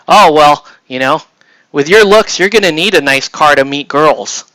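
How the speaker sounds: mock the salesman's backhanded compliment; condescending salesman. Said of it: "he's like".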